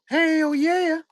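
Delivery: high, stretched hell yeah; drawn-out high cheer; excited cheer. Real, not acted. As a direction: celebrate the pull. Cheering a big pull.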